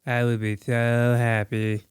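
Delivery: slow, drawn-out Scottish attempt; mock Scottish accent. Shown as a demonstration. Echoing a friend's wish, mock Scottish accent. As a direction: echo it in a put-on Scottish accent.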